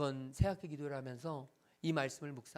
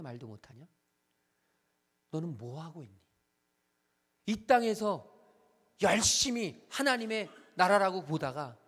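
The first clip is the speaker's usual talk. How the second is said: rebuking God; 5 dB louder than usual. Retold or imitated. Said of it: "하나님이 저를 책망하시는 거예요".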